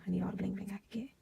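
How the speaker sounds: fast breathy whisper to herself, joking; quick whispered aside. Real, not acted. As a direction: whisper it fast as a private joke. Whispered aside after bling line.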